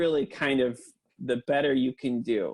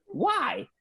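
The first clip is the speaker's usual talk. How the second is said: laughing; 11 semitones higher than usual. Real, not acted. Joking about Papyrus font, laughing.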